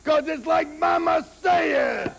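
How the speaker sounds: furious shouting promo. Acted. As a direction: bellow the threats straight at the rival. Angry wrestling promo trash talk.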